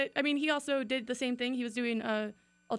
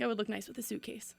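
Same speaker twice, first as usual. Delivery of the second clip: whisper; 6 dB quieter than usual. Real, not acted. Dark joke about suitcase.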